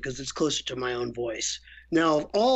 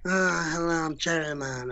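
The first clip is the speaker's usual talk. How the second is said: lightly put-on Godfather voice; Marlon Brando. Actor joking in the studio, Godfather impersonation. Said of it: "doing a Marlon Brando impersonation".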